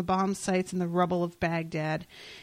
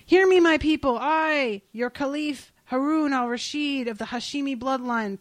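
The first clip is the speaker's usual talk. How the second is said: royal proclamation; 5 semitones higher, 3 dB louder than usual. Acted. Caliph proclaims to his people.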